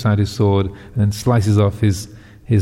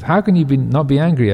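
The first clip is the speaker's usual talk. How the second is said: higher, disbelieving outburst; can't believe he isn't furious; incredulous king; 4 semitones higher than usual. Acted. King disbelieving the yogi's calm, higher incredulous outburst.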